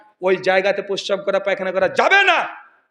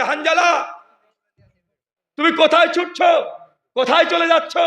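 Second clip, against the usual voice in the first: high, raised voice of a worried pursuer; calling after someone; 8 semitones higher, 4 dB louder than usual. Acted. Abu Bakr calling from behind to running Hanzala, calling out. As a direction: call out to a man running away. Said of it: "পেছন থেকে বলছে".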